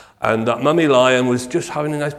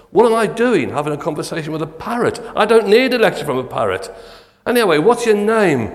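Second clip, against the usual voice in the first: fast and higher, fed up; exasperated burglar; 6 semitones higher than usual. Acted. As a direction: brush the bird off impatiently.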